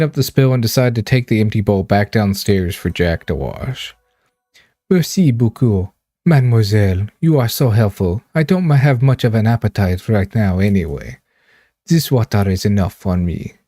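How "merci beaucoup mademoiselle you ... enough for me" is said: put-on faint Russian accent. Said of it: "I keep slipping into, like, a Russian accent".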